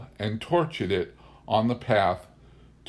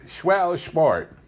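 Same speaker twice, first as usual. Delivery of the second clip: mock hunter quote; 6 semitones higher, 3 dB louder than usual.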